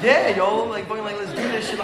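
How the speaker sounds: put-on a teen buying the sales pitch, getting hyped up; mad hype. Telling the men about the paintball trip, getting mad hype. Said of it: "I'm getting mad hype".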